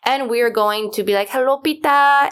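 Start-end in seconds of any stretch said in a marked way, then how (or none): 1.3-2.3 higher, louder vampire greeting; a higher, louder put-on vampire hello; playful vampire voice. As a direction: tease the listeners with the vampire hello. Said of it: "that's how you're gonna hear us".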